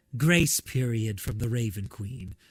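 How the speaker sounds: elegant voice, pitched low. Voicing Morta as it speaks to Ulazal: elegant Morta voice. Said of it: "you hear it speak in this elegant voice".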